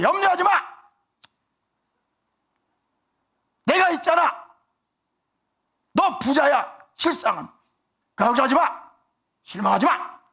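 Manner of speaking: high, loud, emphatic comfort; loud reassuring shout. Shown as a demonstration. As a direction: shout it out to cheer them up. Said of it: "어떻게 말씀하시는 것 같이 들리세요". (크고 높게 외치는 격려)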